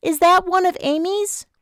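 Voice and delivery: put-on high young woman behind a door; Vanessa's muffled voice. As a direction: pitch her up, muffled and small. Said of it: "Vanessa's muffled voice through the door".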